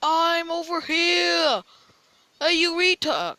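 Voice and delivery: bait him from your hiding spot; mocking taunt. Real, not acted.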